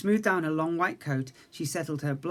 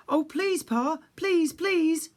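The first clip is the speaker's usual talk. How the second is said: high, louder begging; children beg their father eagerly; pleading cry; 12 semitones higher, 5 dB louder, much slower than usual. Acted. Young daughters beg Pa to go, high pleading. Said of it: "cried Peony, Pansy and Petunia".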